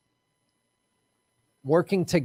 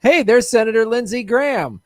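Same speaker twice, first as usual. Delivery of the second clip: put-on Southern accent, raised and loud; Lindsey Graham; 5 semitones higher, 5 dB louder than usual. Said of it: "It's like Southern, which I can do".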